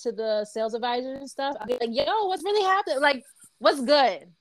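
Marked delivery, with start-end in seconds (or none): 1.9-4.3 a touch of street-style hello, higher; lightly put-on familiar "yo" greeting; casual work-crowd greeting. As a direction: greet the crew casually, pitch lifted. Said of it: "crowd that I work with".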